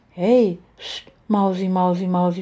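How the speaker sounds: put-on soothing hush to a child; comforting. A narrator's reading. Woman comforts a frightened little girl, soothing. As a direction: shush and soothe with a pet name. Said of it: "tröstete ich".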